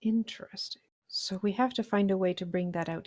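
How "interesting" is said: whispered. Real, not acted. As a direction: hush it like a plotting conspirator. Scheming over stolen wine.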